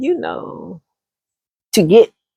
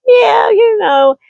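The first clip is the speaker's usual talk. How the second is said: higher, very slow, drawn out; coy giggling woman; 13 semitones higher, much slower than usual. Acted. Woman answering a pickup line, coy and slow. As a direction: flirt back sweetly.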